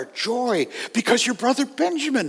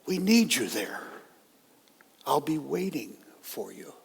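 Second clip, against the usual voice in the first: softer, a hint of a gentle father; tender father; 4 dB quieter than usual. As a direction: reassure the son quietly before leaving. Father's soft final plea.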